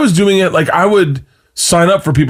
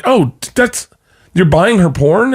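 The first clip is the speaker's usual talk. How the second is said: higher, halting questioning voice; imitating wife; 5 semitones higher than usual. Wife questioning husband about OnlyFans, lightly imitated. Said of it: "she was like".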